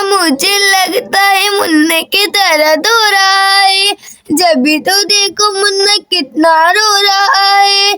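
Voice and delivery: put-on slow, drawn-out old granny; granny greeting her grandchild, slowly; doting grandmother. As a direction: stretch the words like a grandmother. Grandmother speaks to the mother.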